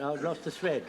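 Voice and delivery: usual speaking voice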